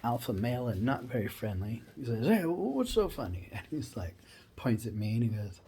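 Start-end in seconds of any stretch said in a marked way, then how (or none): 2.3-3.5 gruff demand. Retold or imitated. Burly guy demands the joke.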